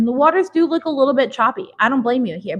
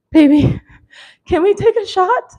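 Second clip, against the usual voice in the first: high-pitched laughing ask, louder; laughing plea; 8 semitones higher, 5 dB louder than usual. Retold or imitated. To her girlfriend, begging for a shot, laughing.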